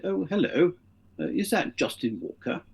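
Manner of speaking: lightly imitated posh English caller. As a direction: put on a posh English phone greeting, starting high. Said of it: "very posh voice said".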